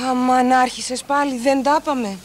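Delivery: slow, weary exasperation; exasperated sigh. Acted. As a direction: drag it out, fed up. Wife exasperated with husband. (η Λίνα βαριεστημένα στον ζηλιάρη άντρα της)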